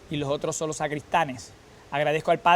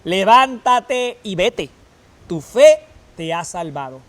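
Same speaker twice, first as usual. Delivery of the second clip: louder and very slow, solemn send-off; Jesus blessing; 2 semitones higher, 8 dB louder, slower than usual. Acted. Jesus sending the Samaritan off, solemn and loud. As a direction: bless him as you send him away. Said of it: "le dijo al samaritano".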